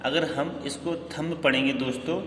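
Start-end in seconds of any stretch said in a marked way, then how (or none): 1.1-1.4 थंब with an audible B after M; B sounded. Shown as a demonstration. Teacher tells friends the wrong reading, थंब with B sounded. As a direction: pronounce the final B in थंब. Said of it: "this is wrong".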